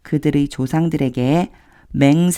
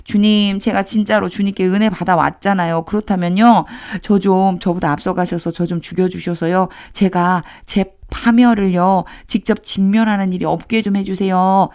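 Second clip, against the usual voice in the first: a touch of a higher, pleading voice; pleading lament; 3 semitones higher than usual. Acted. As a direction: mildly beg God to end it. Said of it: "하소연하듯이 한번".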